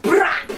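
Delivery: short, high "brap"; mouth-made gun noise; imitated gunshot. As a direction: fire off a burst with the mouth.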